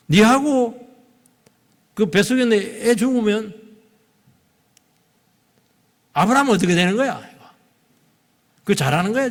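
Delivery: high, loud, pressing reproach; stern reproach. Acted. Preacher voices God to runaway pregnant Hagar, sternly reproachful. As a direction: confront her, pausing between phrases.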